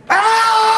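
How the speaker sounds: high, loud "aah" breaking into laughter; burst of laughter. Retold or imitated. Stunned Germans suddenly crack up, high shrieking laugh. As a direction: imitate a whole table shrieking with laughter. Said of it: "and they went".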